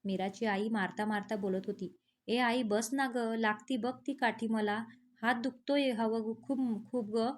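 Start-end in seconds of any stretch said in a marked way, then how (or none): 2.3-7.3 a touch of crying, pleading. Acted. Girl pleading with her mother and sister while being beaten, mild crying. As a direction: plead through mild tears. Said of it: "Mira रडता रडता बोलत होती".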